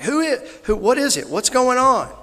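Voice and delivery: high, loud acted blind man's questions; yelling out. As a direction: call out urgently over a crowd. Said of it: "he yelled out to somebody".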